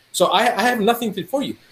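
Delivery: exasperated refusal. Retold or imitated. Doctor turning away crying patient, exasperated refusal.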